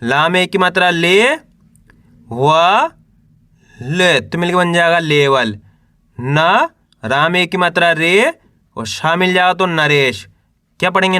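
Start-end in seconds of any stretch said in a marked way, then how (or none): 0.0-5.6 drawn-out letters with pauses between; teacher's spelling drill, held rising syllables; syllable-by-syllable sounding out. Shown as a demonstration. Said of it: "एक अक्षर का उच्चारण करके इनको पढ़ रहा हूँ". 6.2-10.3 drawn-out letters with pauses between; teacher's spelling drill, held rising syllables; syllable-by-syllable sounding out. Shown as a demonstration. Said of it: "एक अक्षर का उच्चारण करके इनको पढ़ रहा हूँ".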